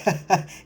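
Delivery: short put-on chuckle; brief mock chuckle between words; imitated laugh. Imitating the boyfriend laughing before he answers, imitated laugh. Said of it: "Rich is laughing".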